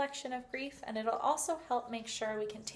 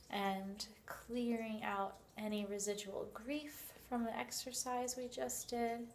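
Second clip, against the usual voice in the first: guided visualisation. Shown as a demonstration.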